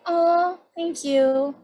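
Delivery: high-pitched, pleased thank-you; mock sweet gratitude. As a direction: coo it, as if sweetly flattered. Pleased reply to sweet-voiced insult.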